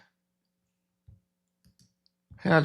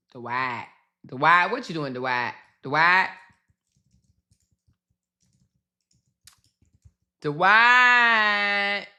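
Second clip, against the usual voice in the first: calling out Dwight; much slower than usual. Real, not acted. Streamer calling out to Dwight on his page, a final wailing shout.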